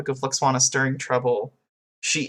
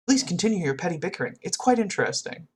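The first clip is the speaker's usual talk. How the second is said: straight-faced, quick, polite delivery; mildly mimicked straight-faced politeness; Data; 3 semitones higher, 3 dB quieter, faster than usual. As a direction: say it deadpan, lightly imitating an unbothered onlooker. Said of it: "Like, just straight-faced".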